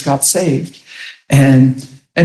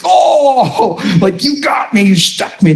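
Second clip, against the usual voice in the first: caught out laughing; 3 semitones higher, slower than usual. Retold or imitated. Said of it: "I laughed like".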